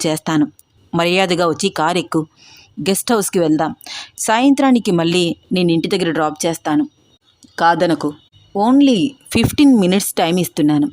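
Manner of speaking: serious warning. Acted. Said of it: "చాలా సీరియస్గా warning ఇస్తున్న".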